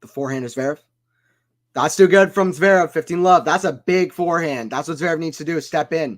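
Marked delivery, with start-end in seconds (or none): 1.7-4.7 loud, excited play-by-play; loud live call of a great shot. Real, not acted. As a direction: burst out at the winner. Big forehand winner on live call.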